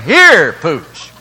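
loud first word, dropping away; mock dog call. Man on the porch, mildly calling his absent Pooch. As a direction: imitate calling a dog, falling off at the end.

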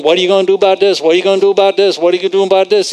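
rapid, insistent chant of a question, mildly mimicked; incoming worried thoughts. Preacher retelling Brother Hagin's thoughts on the night drive, mild badgering. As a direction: keep the questions coming with no gap, lightly nagging. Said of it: "he said the thoughts were coming".

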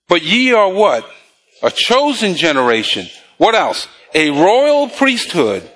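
slow, measured Bible reading; preacher's drawn-out read-along; scripture reading. Real, not acted. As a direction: read verses out deliberately for the congregation to follow. Reads scripture aloud to congregation.

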